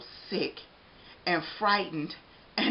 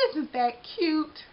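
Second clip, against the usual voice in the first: donut character voice; 9 semitones higher, much slower than usual. Acted. Arnie's thought.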